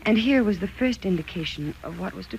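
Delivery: steady, reflective storyteller's voice looking back; story narration. A narrator's reading. Elizabeth recalling her marriage to the listener, reflective narration. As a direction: recount it calmly like a memoir read aloud.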